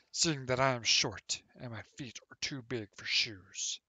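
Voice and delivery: put-on a friendly old hobbit welcoming a friend to sit and listen; Leander voice. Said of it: "So I'm gonna do it in my Leander voice".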